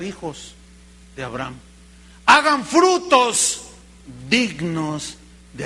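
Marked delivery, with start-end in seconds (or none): 2.2-3.6 orden enfática. Acted. Predica la orden de Juan.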